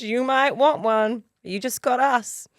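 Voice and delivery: lightly voiced child, slow and matter-of-fact; daughter's tone. Daughter answering mum about babies, matter-of-fact. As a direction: say it like a kid stating the obvious. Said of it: "That was literally the tone that she said it in".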